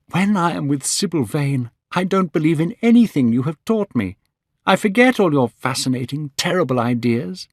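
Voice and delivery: put-on young Dorian Gray. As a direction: lift the voice for a young man in love.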